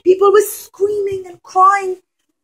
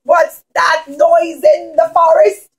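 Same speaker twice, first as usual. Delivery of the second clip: mild pirate call; 4 dB louder than usual. Acted. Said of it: "the pirates would have said".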